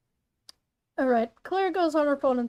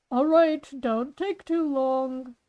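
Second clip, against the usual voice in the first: lightly voiced dad, drawn out; Claire's dad; slower than usual. Dad tells Claire not to dawdle, slow character voice. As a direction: stretch out the reminder as a dad. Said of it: "Claire's dad enters".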